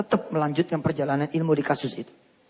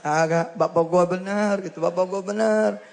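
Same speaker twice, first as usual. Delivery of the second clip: put-on tearful boy; 3 semitones higher than usual. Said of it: "Nangis, anak ini nangis".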